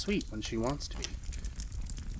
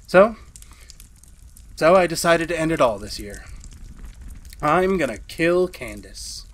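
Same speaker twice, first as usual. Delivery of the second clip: louder, worked-up declaration; agitated; 3 semitones higher, 5 dB louder than usual. Acted. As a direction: blurt out the plan. Announces plan to kill wife.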